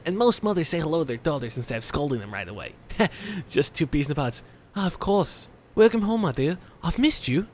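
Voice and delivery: hammed-up British mother greeting her daughter; horrible British accent. Mother welcomes her daughter home, badly faked British accent. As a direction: play a British mom with a clumsy accent. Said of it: "This is like a guy with a horrible accent".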